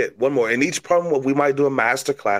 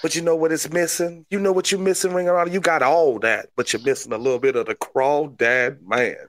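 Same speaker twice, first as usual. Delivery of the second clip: hammed-up Cajun pitch; crawdad man; faster than usual. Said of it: "That's my new gimmick".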